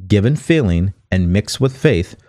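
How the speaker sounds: measured, deliberate read from a book; book reading aloud. Acted. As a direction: read the passage out clearly for listeners.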